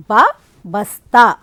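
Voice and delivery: बा, बस्ता slow and loud, letter sound first; teacher stretches बा then says बस्ता, slow and loud. Shown as a demonstration. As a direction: spell out बा, बस्ता slowly for children. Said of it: "बस्ता नहीं बोलते, बल्कि".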